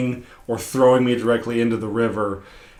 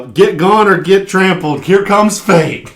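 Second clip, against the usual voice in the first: slow, booming, high and much louder; magically amplified voice; 6 semitones higher, 8 dB louder, slower than usual. Retold or imitated. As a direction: thunder a warning over the whole street. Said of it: "three times louder".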